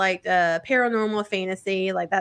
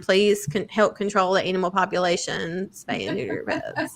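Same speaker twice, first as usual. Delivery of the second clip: Bob Barker impression. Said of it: "This is Bob Barker saying".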